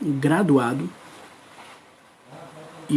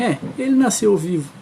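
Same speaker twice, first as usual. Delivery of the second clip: lightly voiced doctor, a little higher; doctor's remark; 4 semitones higher, faster than usual. Doctor to the mother after the birth, lightly imitated. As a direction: lightly imitate a resigned doctor's quick verdict.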